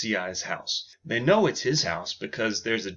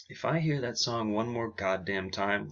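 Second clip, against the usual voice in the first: softer, lower grumbled threat; under her breath; 3 semitones lower, 6 dB quieter than usual. Acted. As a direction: mutter it to yourself. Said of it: "She says it under her breath".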